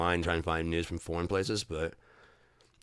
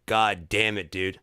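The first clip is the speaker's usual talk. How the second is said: exasperated rant. Retold or imitated. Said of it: "I'm like".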